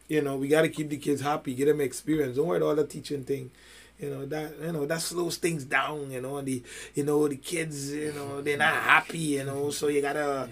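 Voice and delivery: low, soft, hedging voice; placating excuse-maker. Acted. Someone excusing the kids from all the teaching, mock placating. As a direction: mumble mock excuses, trailing through filler words.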